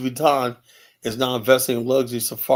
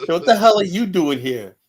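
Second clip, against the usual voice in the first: higher, louder imitation of a startled woman; mock frightened lady; 6 semitones higher, 6 dB louder than usual. Imitating the startled white lady in the store, mock alarm. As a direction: play her shocked alarm, lightly hammed.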